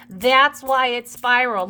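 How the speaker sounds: ordinary talk, nothing marked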